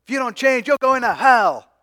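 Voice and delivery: hammed-up preacher condemning a sinner; harsh rebuke. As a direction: preach hellfire at them, rising to a yell. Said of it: "just 'cause I'm not going".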